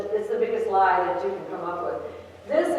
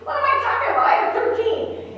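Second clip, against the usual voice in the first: much higher, louder, half-whispered second line; self-mocking surprise; 5 dB louder than usual. Real, not acted. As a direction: laugh at yourself, you have thirteen. Catching herself, self-mocking.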